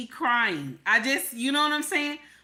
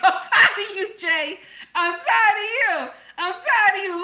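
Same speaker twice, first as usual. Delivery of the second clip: higher, louder, laughing through the words; laughing exasperation; 8 semitones higher, 5 dB louder than usual. Real, not acted. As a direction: laugh it off, fed up with Jay. Reacting to Jay's claim.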